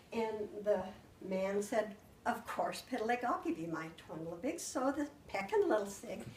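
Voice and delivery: put-on storytelling voice reading to children; story-time narration full of swapped sounds; spoonerized fairy tale. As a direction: tell the tale like to a class of kids. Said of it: "And so then I started out".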